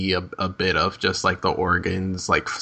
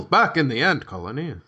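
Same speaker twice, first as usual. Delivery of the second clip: sing-song mock scene-change announcement; mock narrator; 5 semitones higher than usual. Co-host parodying the switch back to the ant colony, mock narrator. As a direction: swoop the pitch up and down theatrically.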